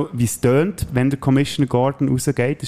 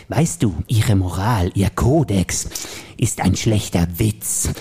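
Joker voice; slower than usual. Acted. Plays the Joker in the scene.

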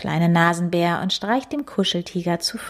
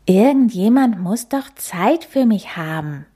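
put-on whiny child; 3 semitones higher, 4 dB louder than usual. Bored cub complains.

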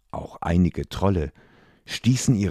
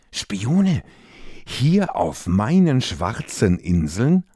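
hissing, scornful queen; evil queen; 5 semitones higher than usual. Acted. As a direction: hiss it like a cold queen. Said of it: "zischte die Königin".

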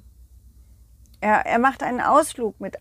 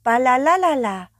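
singsong call; 3 semitones higher, 5 dB louder than usual. Acted. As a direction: trill it like a cartoon ball. Friend ball calling. (Singsang-Ruf)

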